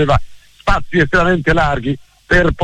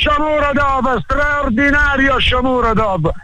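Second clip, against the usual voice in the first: excited praise; 8 semitones higher than usual. Real, not acted. Praising the scorer after goal.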